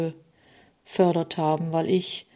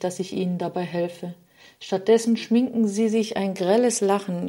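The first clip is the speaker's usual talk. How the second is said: a hint of a sorrowful figure complaining, slightly raised; a touch of weary grief in a storyteller's voice; lightly voiced Sadness; 2 semitones higher than usual. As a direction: Sadness lamenting her fate, gently voiced. Sadness continues her lament.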